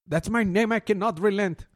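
lightly voiced high villain; a hint of pompous villain; villain boast. Imitating Volfunga's boast. (fanfarronada de villano, ligera)

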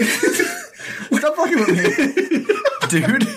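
laughing through the words, high and slow. Real, not acted. Cohost laughing at a friend's teasing. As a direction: giggle it out.

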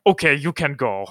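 bad German guard accent that sounds Russian; gruff German guard accent, lightly done. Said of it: "that's your German accent? ... That sounds Russian".

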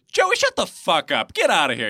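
hammed-up irritation at a pranking friend; mock annoyed yell. Mock phone reply to prankster.

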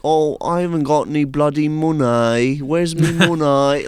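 drawn-out imitation Midlands dialect; dad's Midlands accent. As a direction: imitate a Midlands dad grumbling. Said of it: "he talks like the".

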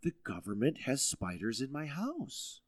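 shocked thought. Retold or imitated. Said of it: "I thought".

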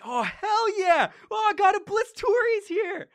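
high, loud cheering fan; excited mourner cheering the god; cheering crowd. Acted. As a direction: whoop like a thrilled partygoer. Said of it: "people in the back who were like".

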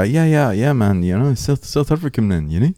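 imitating a chatty South African; rough comic attempt at a South African accent. Comedian quoting South Africans agreeing, mock South African accent. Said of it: "if you ask a South African".

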